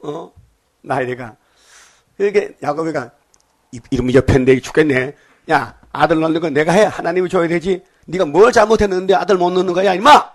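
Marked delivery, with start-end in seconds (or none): 3.7-10.3 mock tirade rising in pitch and volume; acted-out scolding. Jacob scolds his wife over having no son, acted-out angry telling-off. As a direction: scold her, building to a high, loud finish. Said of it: "막 야단치는 거예요".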